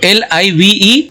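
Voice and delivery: slow letter-by-letter spelling; teacher spelling out a word for the class; spelled out. Shown as a demonstration. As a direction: spell each letter slowly and clearly. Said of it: "इसको बोलते हैं लाइव".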